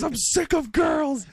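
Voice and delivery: high-pitched, drawn-out mock tantrum; imitated freak-out. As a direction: wail it slowly like a little boy losing it. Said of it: "and he freaks out".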